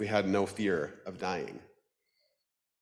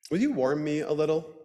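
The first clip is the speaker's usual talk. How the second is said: pleading duck voice; 6 semitones higher than usual. Acted. Duck asking Death.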